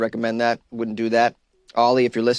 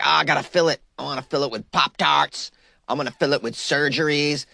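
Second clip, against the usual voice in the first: mock everyman voice; 3 semitones higher than usual. Voicing a generic person filling the void.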